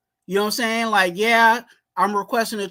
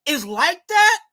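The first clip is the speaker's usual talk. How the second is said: angry rant; 8 semitones higher than usual. Acted. Fan ranting at play caller.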